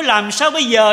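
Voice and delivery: "Làm sao bây giờ" cried out loud and high, falling on "sao"; a loud, high, desperate "Làm sao bây giờ"; loud desperate plea. Shown as a demonstration. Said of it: "Phải nói".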